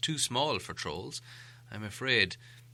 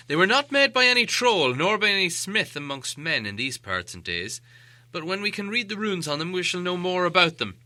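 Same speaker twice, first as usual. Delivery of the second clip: a hint of the old wizard, louder and knowing; lightly voiced Gandalf; 5 semitones higher, 7 dB louder than usual. A narrator's reading. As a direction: sound like the wise wizard examining blades.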